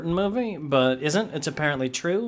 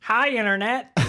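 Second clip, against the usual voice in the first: sexy voice; 6 semitones higher than usual. Pretend. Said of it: "That's his sexy voice".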